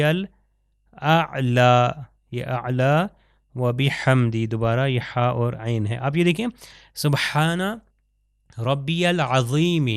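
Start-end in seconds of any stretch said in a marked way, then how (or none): 0.0-1.6 الاعلی stretched very slowly with a throaty ع; drawn-out recitation. Shown as a demonstration. Teacher models the sajda dhikr slowly. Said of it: "underline کر دیتا ہوں". 8.6-9.9 العظیم with a clear ع and heavy ظ, slowly; slow recitation. Shown as a demonstration. Teacher recites the word slowly. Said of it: "عین سے ہے".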